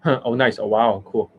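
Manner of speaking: mock-impressed coach, repeated little reactions; Justin Wayne. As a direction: lightly send up his automatic approval. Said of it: "that is the Justin Wayne".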